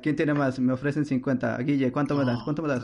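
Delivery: playful auctioneer pushing for bids. Pretend. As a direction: call out bids like a light auctioneer. Mock auction of car numbers. (subastador juguetón)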